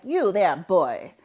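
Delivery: lightly voiced haughty lich; a hint of disdainful undead grande dame; snotty lich. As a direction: sneer a little at a grubby orphan boy. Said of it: "I am this snotty Lich bitch".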